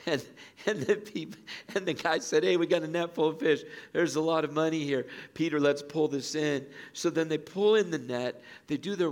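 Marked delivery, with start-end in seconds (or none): 2.4-6.7 louder, higher imitated fisherman's call; excited calling. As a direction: urge a mate to help haul in the catch.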